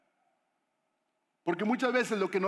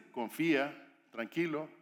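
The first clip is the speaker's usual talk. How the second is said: calm reassurance; 4 semitones lower than usual. Acted. God telling an anxious believer to trust, calm reassurance.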